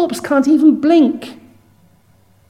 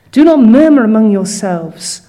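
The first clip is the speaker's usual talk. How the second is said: forceful scripture read; 7 dB louder than usual. Acted.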